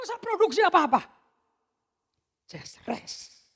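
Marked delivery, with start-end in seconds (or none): 2.5-3.4 soft breathy whisper. Acted. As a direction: breathe it out like a lullaby. God's voice quoted whispered.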